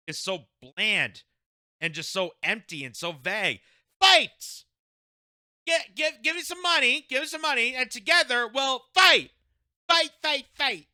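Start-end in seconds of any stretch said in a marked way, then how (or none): 4.0-10.9 high whiny mock rally yelps; trembling whiny yelps. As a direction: yelp it out like a panicky politician. Mocking her rally chant.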